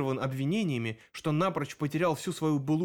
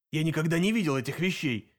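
plain reading voice

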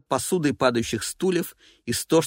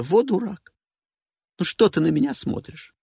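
diva voice; 5 semitones higher than usual. Acted. Evelina voiced.

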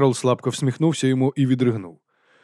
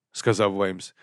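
ordinary delivery, nothing marked

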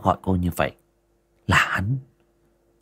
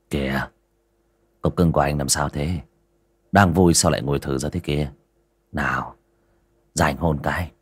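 sweet-talking man; 5 semitones lower than usual. Acted. Đại dỗ ngọt bạn gái.

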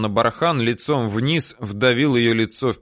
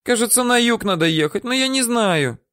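put-on high squeaky old-woman voice; terrified woman babbling what she knows; squeaking; 13 semitones higher than usual.

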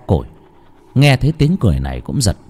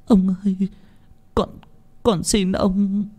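trembling plea; 8 semitones higher, 3 dB quieter than usual. A narrator's reading. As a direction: plead in terror. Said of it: "Cô Thơm run rẩy". (người hầu run rẩy van xin, giọng cao chậm)

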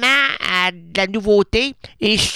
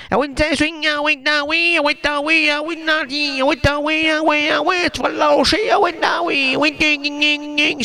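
much higher sing-song encouragement; high-pitched chant of ah oui; high cheering; 8 semitones higher than usual. Acted. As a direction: cheer on the dancing dog. Cheering a dancing dog.

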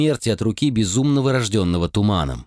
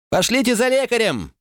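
much higher, urgent shouted call; shouting; 14 semitones higher than usual. Acted. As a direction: cry out for help in alarm. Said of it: "закричал гонец".

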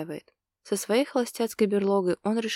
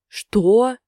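loud, high barked "what"; 4 semitones higher, 11 dB louder than usual. Acted. Ilya barks at Yana, shocked and loud. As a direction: snap the word out at her. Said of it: "рявкнул Илья".

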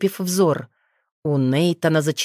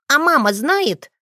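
put-on a boy blurting out his worry; high child's cry of a question; exclaimed; 9 semitones higher than usual. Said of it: "воскликнул Лео".

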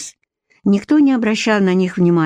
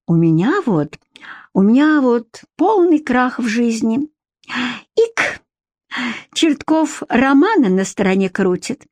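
put-on drunk woman; 4 semitones higher than usual. Drunk Chertkova complaining.

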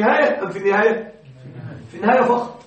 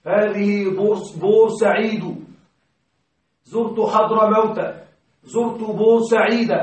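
slow teaching demo; slower than usual. Shown as a demonstration. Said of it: "نقول هذه حضرموت".

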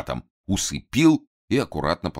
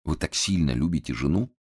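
ordinary delivery, nothing marked

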